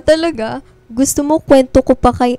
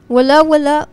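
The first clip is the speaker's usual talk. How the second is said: louder, higher quick denial; flustered denial; 5 semitones higher, 6 dB louder than usual. Acted. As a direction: brush it off in a hurry. Hiding crush from boyfriend.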